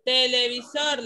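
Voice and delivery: "televisor" with stress on "sor"; stress on last syllable. Shown as a demonstration. Teacher explaining the answer, "televisor" stressed on final "sor". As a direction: lean on the end of "televisor". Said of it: "la sílaba tónica más fuerte es la última".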